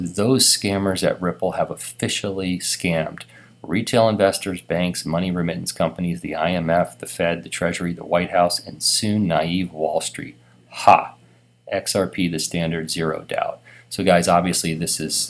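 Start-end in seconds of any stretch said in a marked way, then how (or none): none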